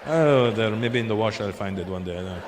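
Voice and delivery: low, offhand mock Arab accent; rich Arab accent. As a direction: shrug it off in a put-on Arab accent. Rich Arab mislaid his millions.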